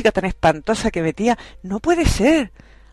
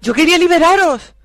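villain voice; 5 dB louder than usual. Acted. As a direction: gloat like a storybook villain. Villain reveals her plan. (malvada triunfal)

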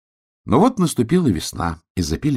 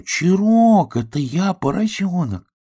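calling out; 11 semitones higher, 3 dB louder, slower than usual. Acted. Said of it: "я крикну".

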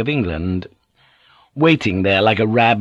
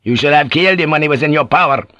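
angry accusation; 4 semitones higher, 4 dB louder, faster than usual. Acted. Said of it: "squared up to him in rage".

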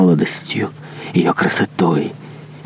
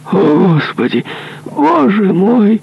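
much higher cry of terror; terrified cry. Acted. Dying executioner crying out in terror, much higher. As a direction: wail to God in fear.

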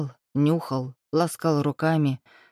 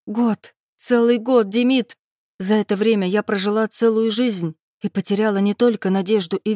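anguished outburst; 3 semitones higher than usual. Acted. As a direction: pour out the whole year's pain. Heroine's bitter outburst. (героиня выплёскивает боль: громко, надрывно)

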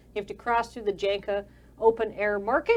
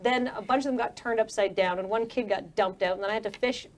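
annoyed. Acted. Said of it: "and she's pretty annoyed".

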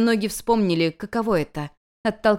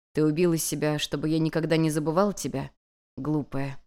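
regretful sigh; 4 semitones lower, 4 dB quieter than usual. Acted. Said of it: "выдохнул древний бог с глубоким сожалением".

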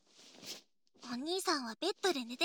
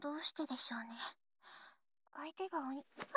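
whispering; 11 dB quieter, faster than usual. Acted. Whispered musing lying in bed.

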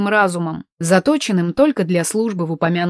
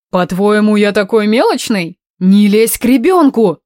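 sharp angry rebuke, louder at the end; snapping angrily; 5 dB louder than usual. Acted. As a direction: scold him hard. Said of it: "рявкнула я".

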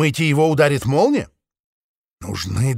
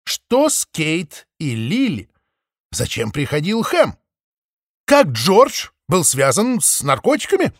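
higher, louder pleading questions; exclaiming; 6 semitones higher, 4 dB louder than usual. A narrator's reading. Maple presses the flock with urgent, raised questions. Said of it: "воскликнула она".

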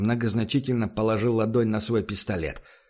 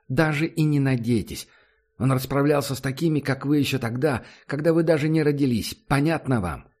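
angry; 3 semitones higher than usual. Acted. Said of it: "гневную отповедь".

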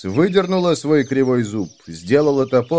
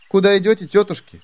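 put-on bright girl voice; 8 semitones higher, 3 dB louder, faster than usual. Heroine asks the women.

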